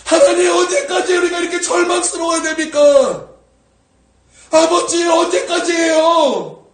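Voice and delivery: anguished shouted supplication; desperate prayer. Acted. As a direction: plead loudly with God, stretching the last words. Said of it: "그렇게 기도하고 있다라는 거예요".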